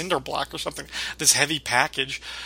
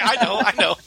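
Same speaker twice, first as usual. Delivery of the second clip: laughing; 5 semitones higher than usual. Retold or imitated. Sam's annoyed retort, retold.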